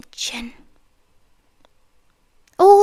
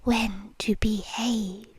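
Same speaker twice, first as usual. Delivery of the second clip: slow hushed command; 3 semitones lower, 8 dB quieter, slower than usual. Acted.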